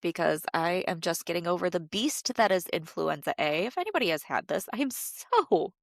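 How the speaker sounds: stuffy, blocked nose from flu; nasal voice. Real, not acted. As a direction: talk through a congested nose. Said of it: "my horribly nasally voice".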